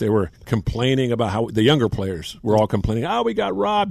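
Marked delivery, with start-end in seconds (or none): 3.1-3.9 high mocking whine of sore losers; mock whiny complaint. Teammates griping on the plane home, mock whining. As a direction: whine it like a spoiled young player.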